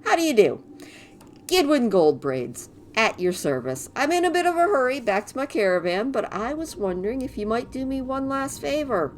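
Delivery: cheerful little helper, quick; christmas elf. Acted. Voices Gidwin's dialogue.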